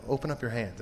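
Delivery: softly retold girlfriend coaxing; soft, tender retold request; gentle coaxing. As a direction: quote her gently, dropping the volume. Girlfriend gently calming him, retold.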